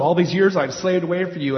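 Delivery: a mock angry outburst at father; replaying how he let his father have it; retold telling-off. Son repeats his angry words to dad, a touch heated. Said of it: "I let him have it".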